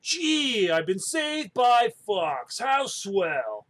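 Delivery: lightly voiced cocky bird; a hint of a brash pilot; Falco voice. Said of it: "That's Falco".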